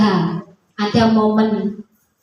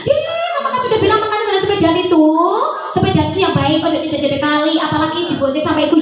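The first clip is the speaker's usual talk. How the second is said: lightly mocked nagging mum, quick and higher; nagging mother; 5 semitones higher, much faster than usual. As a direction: rattle off a scolding at the child. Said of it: "Ya ngomong sendiri ruangan". (ibu mengomeli anak, ditirukan ringan dan cepat)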